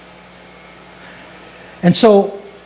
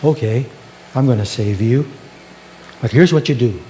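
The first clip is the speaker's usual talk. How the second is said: voice from heaven; 4 semitones lower, 4 dB quieter than usual. Acted. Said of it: "this voice from the heavens".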